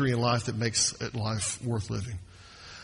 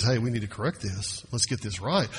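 gentle and loving. Pretend. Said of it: "He comes in gently and lovingly and says".

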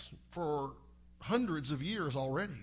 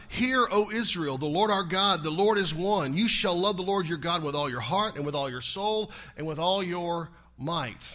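preaching at full force; 6 dB louder than usual. Acted. Preacher booming the Shema to his church. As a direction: proclaim the verse to the congregation.

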